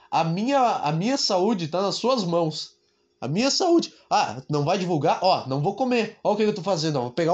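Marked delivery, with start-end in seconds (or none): 3.2-3.9 mock plea; mock pleading. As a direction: beg in jest for his health. Mock plea for his health.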